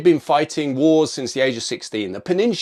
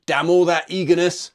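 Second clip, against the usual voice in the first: loud, higher barked rebuke; ringing command; 5 semitones higher, 4 dB louder than usual. Retold or imitated. General reins in eager redcoats, loud ringing rebuke. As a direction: call the line back to order, loud. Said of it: "Campbell's voice rang out again".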